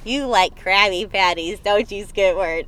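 lightly voiced cartoon meme quote; SpongeBob. Quoting the iconic meme to a friend, hint of SpongeBob. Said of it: "when SpongeBob's like this".

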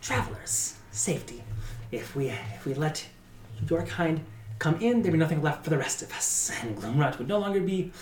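firm tavern matron. Acted. Velaya refusing the vampire.

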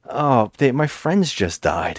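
a drawn-out fake lament for dead friends; mock grief. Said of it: "And he's like".

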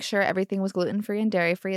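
"gluten-free and dairy-free" rattled off fast and wryly; fast wry retelling. Retold or imitated. Mom retelling the teacher's promise, fast and dry. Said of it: "breathed through how kind and thoughtful".

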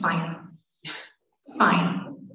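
low, sullen, separated words; bitter giving in. Retold or imitated. Wife grudgingly agreeing to rehab, bitter. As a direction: give in grudgingly, voice dropped low.

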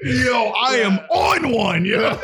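high, slow laugh-cry. Real, not acted. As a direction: squeal through the laughter. Hysterical laughing fit.

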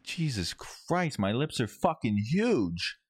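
slow, drawn-out mock alarm; retold alarm. Telling friends about seeing his swollen lips in the mirror, mock alarm. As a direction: draw it out in stunned, retold disbelief. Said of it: "I'm borderline freaking out".

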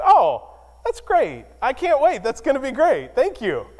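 mock delight. Clueless husband feigns delight.

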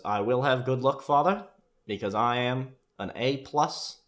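proudly formal, every word deliberate; Michael's stiff reply. Retold or imitated. Michael replies formally to dad.

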